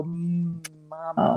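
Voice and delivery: soft, long "mmm" into "Mama"; drawn-out hummed M. Retold or imitated. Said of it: "put my lips on his and go".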